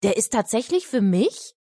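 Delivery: put-on a light touch of a boy's amazement; amazed. Henrik holding a letter addressed to him, mildly amazed. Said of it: "staunte Henrik".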